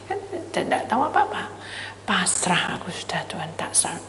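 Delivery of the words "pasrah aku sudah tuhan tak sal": whispered surrender, much softer; whispered prayer. Retold or imitated. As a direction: breathe it as a frightened prayer.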